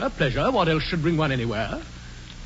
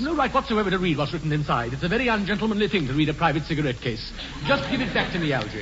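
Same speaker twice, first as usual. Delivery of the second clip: laughing protest. Acted. Jack laughing while protesting.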